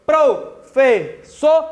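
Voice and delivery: "professora" slowly chopped into four syllables. Shown as a demonstration. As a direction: leave a gap between pro, fes, so and ra. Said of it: "a divisão silábica da palavra".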